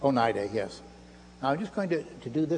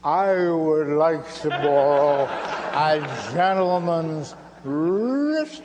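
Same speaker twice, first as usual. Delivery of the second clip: very slow and drawn out, stretching every word; mock slow-motion replay of the line; speech slowed to a crawl like a slowed-down tape; 5 dB louder, much slower than usual. Shown as a demonstration. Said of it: "Here it is in slow motion".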